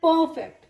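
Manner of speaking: "परफेक्ट" with a long first uh and no r; lengthened vowel, silent R. Shown as a demonstration. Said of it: "इसके sound को थोड़ा सा लंबा करेंगे".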